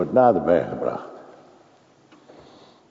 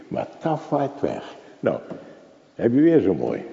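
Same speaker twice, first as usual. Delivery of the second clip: ordinary delivery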